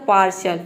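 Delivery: पार्शल said as 'paar-shal', with the ti turned into sh; pronunciation demo. Shown as a demonstration. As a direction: say पार्शल with a clear sh in the middle. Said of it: "टी ए आई पूरा हो जाएगा शल". (पार्शल का उच्चारण, टी को श बोलें)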